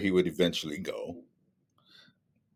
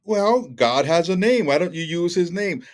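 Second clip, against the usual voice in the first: elder correcting a former member, lightly voiced; mock correcting elder; 6 semitones higher, 4 dB louder than usual. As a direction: lecture him like a patient elder.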